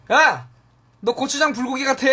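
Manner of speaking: teasing yell. Retold or imitated. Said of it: "라고 놀렸던".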